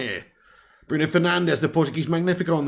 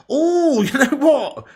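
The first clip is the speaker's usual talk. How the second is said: laughing; 10 semitones higher, 7 dB louder, much slower than usual. Real, not acted. Reacts to elbow replay.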